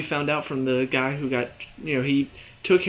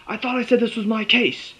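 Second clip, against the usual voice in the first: higher-pitched mock indignation; lightly acted territorial complaint; indignant protest; 8 semitones higher, 3 dB louder than usual. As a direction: protest as if your turf was invaded. Acted protest over the case.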